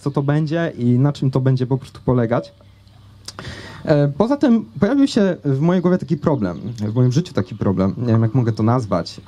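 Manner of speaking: ordinary talk, nothing marked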